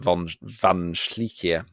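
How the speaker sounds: slow, light German accent on the name; half-hearted German accent, drawn out. Shown as a demonstration. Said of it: "I always do it in a German accent".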